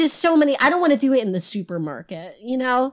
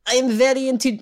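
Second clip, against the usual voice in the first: put-on half-hearted German accent, slightly raised; attempted German accent; 3 semitones higher than usual. Podcast host voicing the intended Hitler guest, shaky German accent attempt. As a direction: try a German accent before giving up. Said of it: "I can't do a German accent".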